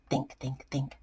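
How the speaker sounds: muttering to self. Acted. Potato panics, thinks hard.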